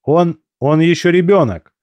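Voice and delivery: strained. A narrator's reading. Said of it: "выдавил я".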